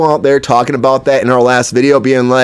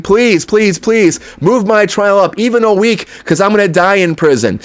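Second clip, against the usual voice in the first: mildly acted pleading, higher at the start; Harvey Weinstein; 4 semitones higher than usual. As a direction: imitate a plea to a judge, lightly urgent. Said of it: "Harvey Weinstein is pleading".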